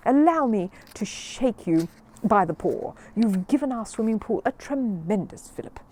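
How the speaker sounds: a hint of a booming schoolmistress; lightly voiced jolly headmistress; hearty headmistress. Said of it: "she cried".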